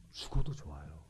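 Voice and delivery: low, soft declaration; hushed confession. Acted. Believer accepting death in faith, low and hushed. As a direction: say it quietly, pitched well down.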